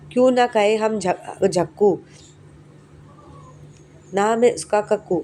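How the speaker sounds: put-on slow, measured reading of a children's poem; poem recitation. Teacher reciting the Kakku poem to class three, slow recitation.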